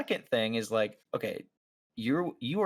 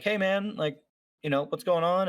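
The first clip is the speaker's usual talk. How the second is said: lightly voiced cop; 8 semitones higher than usual. Older officer voiced.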